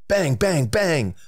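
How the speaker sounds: high, punchy sound-effect bangs; hammed-up bangs in rapid bursts; mock celebrity impersonation. Contestant attempts a joke impersonation for an extra point, high and punchy. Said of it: "can I do of both?".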